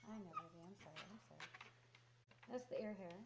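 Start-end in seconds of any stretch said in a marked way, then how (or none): 0.1-1.5 soft apology. Real, not acted. Apologizing to dog during ear plucking.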